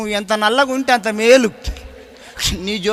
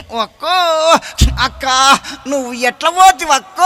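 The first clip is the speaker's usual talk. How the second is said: mock mourning wail; 4 dB louder than usual. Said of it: "ఎట్లా ఏడుస్తారంటే".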